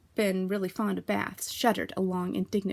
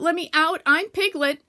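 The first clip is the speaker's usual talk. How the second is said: higher, louder squealing protest; Piglet protesting; 9 semitones higher, 8 dB louder than usual. A narrator's reading. Piglet in the bath to Kanga, loud squeal. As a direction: plead to be let out.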